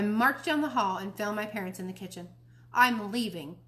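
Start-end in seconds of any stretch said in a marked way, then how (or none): 2.7-3.6 ज़ोर से ऐलान करते हुए; सबको सुनाकर घोषणा करो; announcing. Acted. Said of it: "I announced".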